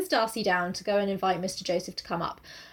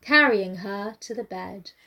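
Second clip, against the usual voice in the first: slow, measured preacher's delivery; mock sermon reading; 3 semitones lower, slower than usual. Imitating audiobook narrator to co-host, slow sermon-like reading. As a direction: read the love scene like a solemn sermon. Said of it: "read it like a fucking sermon".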